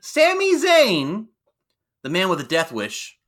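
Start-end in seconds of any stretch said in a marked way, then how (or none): 0.0-1.3 high, slow, loud name call; announcer name call. Acted. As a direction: draw out the name like a ring announcer. Ring-announcer style name call.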